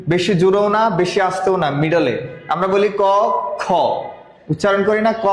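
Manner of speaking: usual speaking voice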